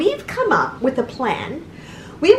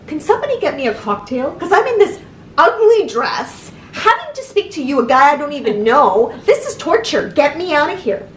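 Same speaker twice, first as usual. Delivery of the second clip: sarcastic complaint; 4 semitones higher than usual. Pretend. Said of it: "I'd be looking at him and saying".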